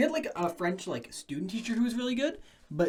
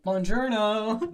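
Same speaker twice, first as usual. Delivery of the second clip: slow, drawn-out mock Italian "Buongiorno"; pretending to speak French at a job interview; hammed-up Italian; 3 semitones higher, 3 dB louder, much slower than usual. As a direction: stretch it like a cartoon Italian. Fake greeting in a foreign language.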